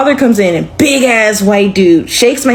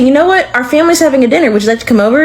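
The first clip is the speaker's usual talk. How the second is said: higher, fast eager invitation; imitating boyfriend; 4 semitones higher, faster than usual. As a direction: rush the invite like a keen boyfriend. Boyfriend Tyler voiced in story.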